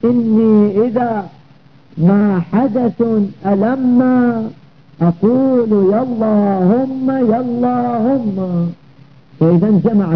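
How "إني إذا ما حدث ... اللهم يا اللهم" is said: slow, stretched verse recitation; drawn-out Arabic verse, slightly raised pitch; poem recitation. Acted. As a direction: recite the verse metrically with long held vowels. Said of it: "في قول الشاعر".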